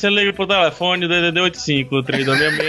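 upbeat radio announcer read; radio host voice. Pretend. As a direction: read the number like a DJ. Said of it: "encarnou o radialista".

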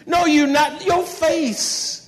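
preacher scolding a sulking listener, mock scold; calling out. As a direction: call out the pout, half-teasing. Preacher calls out sulker.

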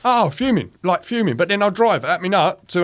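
mock fuming. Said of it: "Bet that made you angry".

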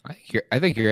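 hoarse and squeaky from yelling; a voice worn out from cheering. Real, not acted. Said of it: "excuse me for the squeaky voice there".

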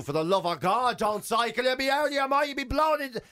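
alarmist weather forecaster. Retold or imitated. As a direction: play a panicky forecaster warning the nation. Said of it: "They go".

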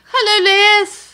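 high, loud attempt at Liverpool accent; botched Liverpool accent. Columnist voicing the Liverpool photographer's message, botched Liverpool accent. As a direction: ham up a badly faked Scouse greeting. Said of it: "Or what's the Liverpool accent?".

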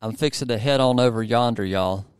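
folksy Southern US accent; easy Southern American twang. Shown as a demonstration. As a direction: demonstrate a Southern phrase for copying. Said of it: "I've got a good one for you".

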